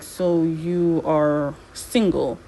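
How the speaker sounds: slow, lightly voiced suggestive question; slow sly Gameplay. Voicing Gameplay to Dean, slow and suggestive. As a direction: drawl it out like a smooth talker. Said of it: "This is where Gameplay is like".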